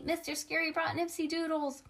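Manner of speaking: high-pitched announcement without real volume; mild excited shout. A narrator's reading. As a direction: call out the exciting news high. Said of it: "shouted Lenny".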